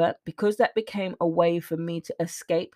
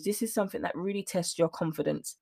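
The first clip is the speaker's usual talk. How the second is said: softer, choked-up delivery; on the verge of tears but holding it together; getting emotional; 5 dB quieter than usual. Real, not acted. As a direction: let the feeling catch in your throat. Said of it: "I'm getting a little bit emotional here".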